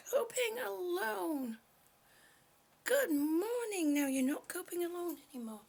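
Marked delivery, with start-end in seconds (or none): 0.1-3.9 drawn-out tender welcome; slow warm greeting. Real, not acted. Welcoming lonely viewers, slow and tender. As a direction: stretch it out kindly.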